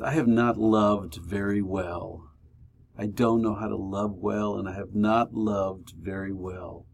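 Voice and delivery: a soft, rueful confession; quiet confession. Retold or imitated. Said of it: "he says".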